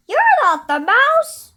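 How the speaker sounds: high, loud, disappointed; child voice. Acted. Gruffalo's child telling the snake, high and loud. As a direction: call it out like a letdown kid.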